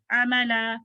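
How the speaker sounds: अमला with quick short opening vowels. Shown as a demonstration. Teacher corrects the mistake, short-vowelled अमला. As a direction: keep the first vowels of अमला brief. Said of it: "short vowel".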